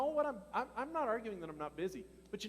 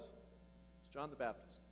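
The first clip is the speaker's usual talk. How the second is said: whispered, slow and soft; hushed reveal; 6 semitones lower, 11 dB quieter, much slower than usual. Real, not acted. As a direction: breathe the name like a secret.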